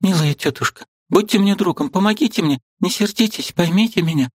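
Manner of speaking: high, earnest plea; pleading young girl. A narrator's reading. Liza begging her aunt to understand, earnest and high.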